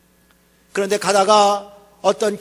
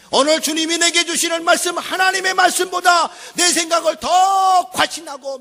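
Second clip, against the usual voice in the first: loud, much higher shout of the sermon's peak; fiery preaching; 7 semitones higher, 5 dB louder than usual. Real, not acted. Preacher warning the congregation, at full preaching force. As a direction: hammer the warning home to the congregation.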